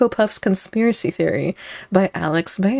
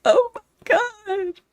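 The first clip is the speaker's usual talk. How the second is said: laughing; 5 semitones higher than usual. Acted. Mock dramatic reaction, laughing.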